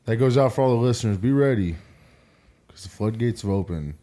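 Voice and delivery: audible heavy breaths between words; heavy nose breathing. Real, not acted. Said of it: "can you stop breathing into the mic like that".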